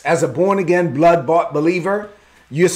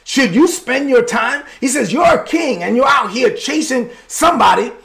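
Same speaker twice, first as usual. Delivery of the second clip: higher and higher, pressing; building indignation; 6 semitones higher than usual. Acted. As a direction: build the challenge to a peak. David's rising challenge.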